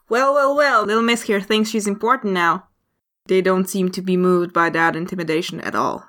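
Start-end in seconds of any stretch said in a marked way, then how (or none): 0.1-2.7 lightly voiced sneering thug; a hint of taunting villain; mocking thugs. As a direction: scoff at an attempted threat, pitch lifted at the start. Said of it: "turn to look at you and say".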